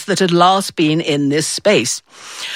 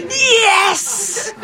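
triumphant yes; 12 semitones higher than usual. Retold or imitated. Girl's triumph.

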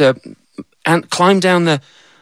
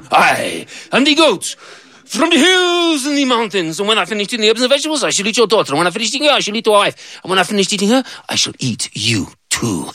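menacing goat; 8 semitones higher than usual. Acted. Goat threat.

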